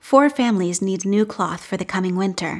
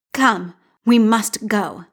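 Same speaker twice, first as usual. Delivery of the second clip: urgent edge; slower than usual. Acted. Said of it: "never heard that tone from her mother".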